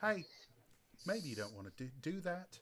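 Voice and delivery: soft-spoken, failed attempt at New Zealand accent. Imitating a new zealand bouncer warning someone: attempted kiwi accent. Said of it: "Except I can't do a k-, k-, k-, Kiwi accent".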